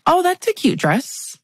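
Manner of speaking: mock-sweet catty compliment; sassy fake compliment. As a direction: coat the dig in fake sweetness. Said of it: "Was that sassy?".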